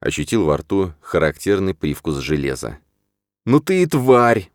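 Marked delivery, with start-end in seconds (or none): 3.4-4.5 slow, loud, high insult; angry shout. A narrator's reading. Hero yelling at Rahim after being hit, slow and loud. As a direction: spit the insult out after the punch. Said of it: "выкрикнул я".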